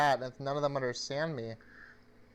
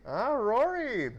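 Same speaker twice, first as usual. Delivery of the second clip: excited greeting; 11 semitones higher, 6 dB louder, much slower than usual. Real, not acted. Greeting a friend who joins.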